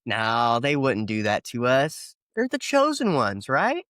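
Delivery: a sneering pretend believer, pitch leaping up at the end; sarcastic mock innocence. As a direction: play dumb, dripping with sarcasm.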